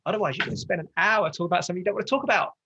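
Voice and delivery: fervent, emphatic appeal; passionate. Real, not acted. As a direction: get carried away with conviction. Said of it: "Sorry, I'm getting passionate".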